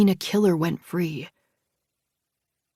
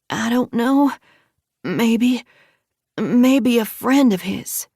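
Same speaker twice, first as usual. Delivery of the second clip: tearful; 4 semitones higher, 6 dB louder, slower than usual. Acted. Crying after the attack.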